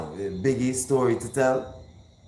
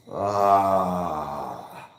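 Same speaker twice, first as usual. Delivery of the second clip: long falling exclamation after rapping; long drawn-out "ah". Real, not acted. Host finishes Big L's verse, long falling "ahh".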